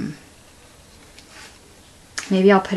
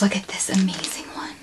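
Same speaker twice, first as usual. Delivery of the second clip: whisper; 6 dB quieter than usual. Real, not acted. Admiring the lace.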